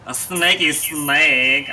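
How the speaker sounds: drawn-out s like a snake. Pretend. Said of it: "you sound like a snake".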